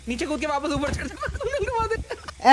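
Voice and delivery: slow spelled-out instruction. Real, not acted. Guiding a lost teammate back up, said slowly and deliberately. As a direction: repeat the direction slowly, stretching each word. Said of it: "तेरे पीछे, नीचे कूद के वापस ऊपर चढ़ जा".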